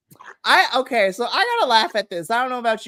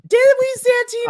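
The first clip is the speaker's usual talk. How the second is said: high, loud, mocking disbelief; sarcastic squeal; 8 dB louder than usual. Fan mocking Santino's claim, high sarcastic squeal. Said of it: "I'm like".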